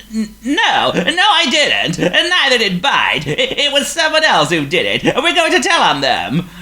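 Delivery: high, loud, stammering, scared; trembling with fear. A narrator's reading. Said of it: "trembling with fear".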